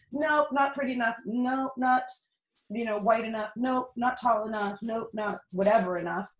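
curt, repeated rejecting nope; mock a casting director's brush-off; dismissive industry voice. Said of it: "the film and television business saying".

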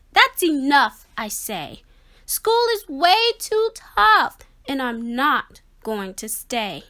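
upset declaration. Acted. Fish storms toward the exit.

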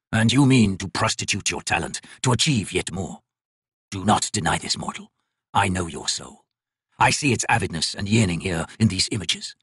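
lightly voiced ancient god, slow and measured; a crippled god. Crippled god judging the painter's work, slow and cold. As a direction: speak down to the mortal like a bored deity.

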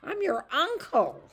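high, slow, loud tearful wail. Acted. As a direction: plead through tears. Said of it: "his eyes filled with tears".

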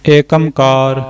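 ਏਕ long e, ਓਂਕਾਰ said as amkar; wrong ek onkar. Shown as a demonstration. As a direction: mistaken ek amkar again. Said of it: "ਨਹੀਂ ਉਚਾਰਨਾ".

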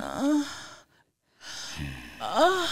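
rising falsetto murmurs; Greg. Acted. Greg in second sketch.

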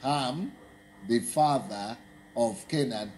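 "Ham", set apart by a pause, then "the father of Canaan"; emphasis. Shown as a demonstration. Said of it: "See the emphasis?".

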